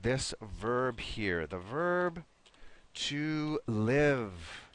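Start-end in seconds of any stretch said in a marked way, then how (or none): 2.9-4.6 "live" with a short I, as in "give"; short I sound. Shown as a demonstration. Teacher showing Miguel the verb, "live" with short I. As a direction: draw out "live" clearly on the short I. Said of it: "have a short I sound".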